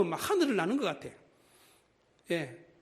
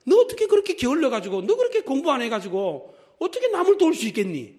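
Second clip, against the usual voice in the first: higher, louder scolding parent with a laugh; nagging parent; 6 semitones higher, 7 dB louder than usual. Shown as a demonstration. Jewish parent scolds a lazy child, mock nagging. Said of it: "이렇게 교육을 시킨다는 거예요".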